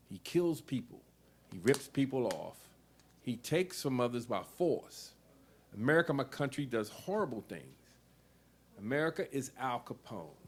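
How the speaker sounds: declaiming a political essay, measured and pointed; essay reading. Acted. Reader declaiming her essay to the audience, firm and measured. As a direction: read each charge out firmly to the room.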